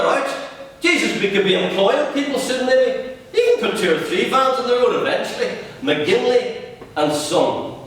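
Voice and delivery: father selling his dream to his son, growing excited; eager father's pitch. Acted. Dad pitching the window cleaning business, rising eagerness.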